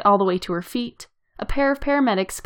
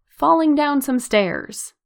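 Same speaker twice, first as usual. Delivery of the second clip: slow, higher, deliberately meaningful; stretched out and knowingly pointed; 6 semitones higher, slower than usual. A narrator's reading. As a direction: lean on it like an agreed cover story. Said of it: "She narrows her eyes pointedly".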